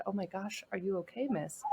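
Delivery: soft, gently worried question; mild, hushed concern; retold concern. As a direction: ask softly, checking on a stranger. Retold concern for crying woman.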